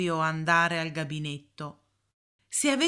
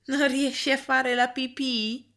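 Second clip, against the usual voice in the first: giggling; 7 semitones higher than usual. A narrator's reading. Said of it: "ridacchiò Kenny".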